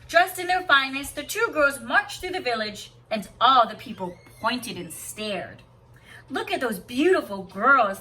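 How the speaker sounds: lilting read-aloud storyteller voice; story narration. Acted. Teacher reading a picture book to students, lilting storybook voice.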